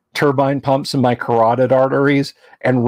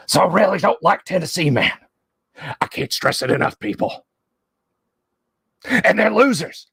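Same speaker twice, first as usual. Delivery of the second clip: a hint of Alex Jones, grumbling rant about Tennessee; Alex Jones rant impression; 2 semitones higher than usual. Doing Alex Jones for the stream, a mild ranting impression. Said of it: "as read by Alex Jones".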